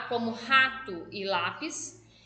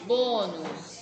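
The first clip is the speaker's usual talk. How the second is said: Bônus lower, with a long "bô"; stress on first syllable; 5 semitones lower than usual. Shown as a demonstration. Teacher confirming the tonic syllable, low and emphatic. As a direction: lean on the opening of bônus, then drop. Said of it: "O bo é a sílaba tônica".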